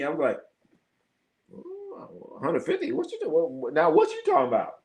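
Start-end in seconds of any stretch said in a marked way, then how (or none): 1.5-4.7 mock disbelief. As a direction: play up fake shock at the offer. Retold haggling, acting incredulous self.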